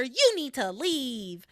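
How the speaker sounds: slow, drawn-out you need to leave; reading Ethan as the viral clip; viral meme voice. Retold or imitated. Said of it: "that's how I heard Ethan".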